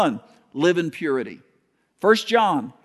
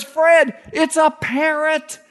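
high, loud burst of disbelief; burglar's laughing shout; 10 semitones higher, 4 dB louder, slower than usual. Retold or imitated. Burglar shouting to his partner, high and loud. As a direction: call out to Fred in disbelief. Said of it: "He goes".

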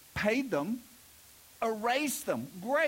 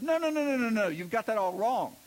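protesting Pharisee; 3 semitones higher than usual. Retold or imitated. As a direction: object in a hurry, fussing at the wording. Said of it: "And the Pharisee says".

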